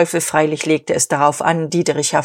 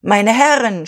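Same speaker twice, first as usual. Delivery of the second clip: "Meine Herren" pushed higher, over the noise; strained shout; 4 semitones higher, 3 dB louder than usual. Acted. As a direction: strain to be heard over the crowd. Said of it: "schrie er angestrengt". (angestrengter Ruf über den Lärm)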